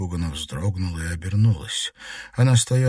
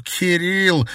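high, indignant cry of the name; a sharp, outraged yell; indignant shout; 10 semitones higher, 3 dB louder than usual. A narrator's reading. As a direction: burst out in outrage. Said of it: "возмущённо крикнул Игорь".

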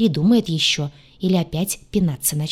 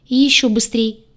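higher, louder, anxious promise; nervous; 6 semitones higher, 5 dB louder than usual. A narrator's reading. Neurotic demon promising even faster food, nervous. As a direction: blurt it out nervously, eager to please. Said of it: "сглотнул невротик".

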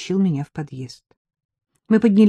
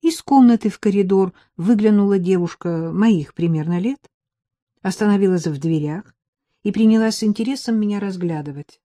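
usual speaking voice

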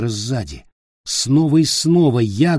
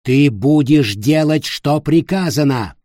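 loud order; 4 semitones higher, 5 dB louder than usual. Acted. Ulfger ordering Peter.

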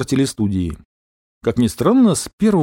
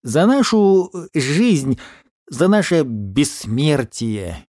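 toast; 2 semitones higher, much slower than usual. Acted. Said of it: "выкрикнул тост дикобраз".

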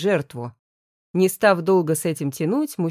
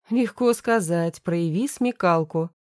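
grumbling. Acted. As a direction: grumble the words back mockingly. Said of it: "буркнул мужчина".

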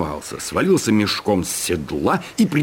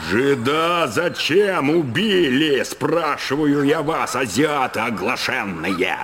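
slow, higher, demanding; angry repeat; 7 semitones higher, slower than usual. A narrator's reading. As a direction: hammer the question home. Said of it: "повторил Чертопханов". (грозный повтор)

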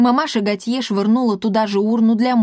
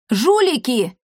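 higher indignant cry; angry shout; 4 semitones higher, slower than usual. Acted. Fire chief Martikhai hurling an insult, angry shout. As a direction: hurl the insult.

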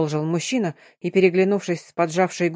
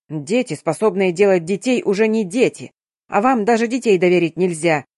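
ordinary delivery, nothing marked

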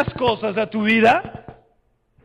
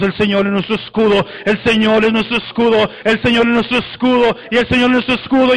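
battle chant building from firm to loud; cántico que sube; 4 dB louder than usual. Shown as a demonstration. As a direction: repeat it, rising in pitch and force. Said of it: "y empieza a subir". (cántico de batalla que va subiendo)

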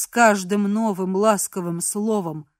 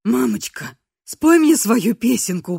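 put-on childlike pleading; 5 dB louder than usual. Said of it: "умолял ребёнок".

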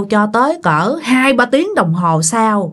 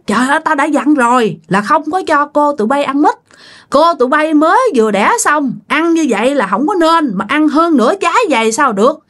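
retold scolding; 6 semitones higher than usual. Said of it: "bà cố mới la nói".

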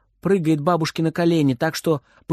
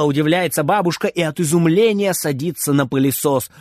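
usual speaking voice

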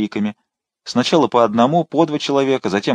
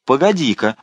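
threatening shout; 6 semitones higher than usual. A narrator's reading. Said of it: "закричал он".

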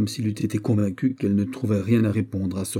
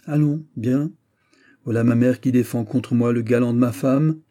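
indignant, raised-voice exclamation; exasperated; 3 semitones higher, 5 dB louder than usual. Acted. Son accuses his mother of defending the gallant, exasperated. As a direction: throw it out in exasperation. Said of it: "s'écria Philippe, tellement exaspéré".

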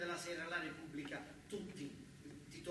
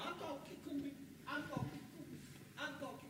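calling out; 11 semitones higher than usual. Acted. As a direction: shout it up to someone's window above. Calling up under the balcony.

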